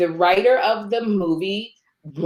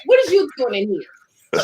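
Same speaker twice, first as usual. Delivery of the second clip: laughing retort; 8 semitones higher than usual. Retold or imitated. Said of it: "I said".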